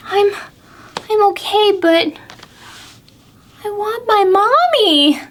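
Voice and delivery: high small owlet voice; a lost baby owl wanting mommy; little owl. Acted. Owlet telling the squirrel it wants mommy, high and small.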